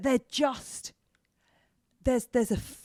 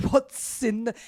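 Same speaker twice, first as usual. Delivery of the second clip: gasping "what's in the bag"; 3 dB louder, slower than usual. Retold or imitated.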